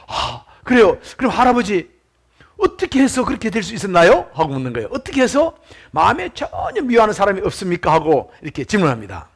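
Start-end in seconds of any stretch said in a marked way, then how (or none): 0.1-4.3 touched pastor asking in wonder; moved, marveling. Retold or imitated. Pastor asks the old man his secret, moved and marveling. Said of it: "감격의 찬 목소리 묻습니다". 4.9-7.9 higher, amazed questioning; moved, marveling. Retold or imitated. Pastor asks how he hates nobody, moved and marveling. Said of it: "감격의 찬 목소리 묻습니다".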